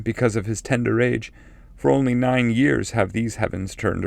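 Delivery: a hint of a solemn forefather foretelling exile; ancestor's prophecy. A narrator's reading. Cacciaguida foretells the poet's exile.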